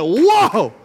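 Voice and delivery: loud, high gasp of amazement; stunned whoa. Retold or imitated. Telling the crowd how the pastor's words floored him, loud stunned whoa. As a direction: blurt it out, floored by the revelation. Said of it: "I went".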